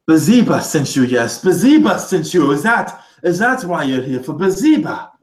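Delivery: high, excited, rising questions; frantic realization. Acted. Vizier seizes on a sudden realization.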